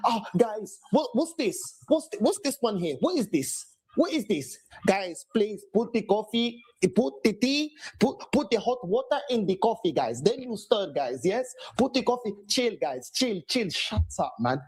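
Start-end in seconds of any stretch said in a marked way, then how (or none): 0.1-4.6 mock flustered manager. 4.9-13.7 mock fussy manager. Mock manager ordering coffee.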